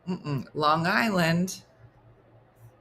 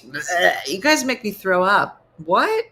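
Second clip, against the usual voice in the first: mock disgust; 4 dB louder than usual. Mock disgust at beach-sayers.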